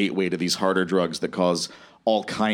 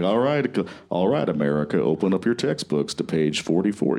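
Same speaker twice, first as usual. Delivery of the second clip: lightly imitated boring schoolteacher politician; Al Gore; 3 semitones lower than usual. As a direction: drop lower for a dull classroom instruction. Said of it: "That's a great impression".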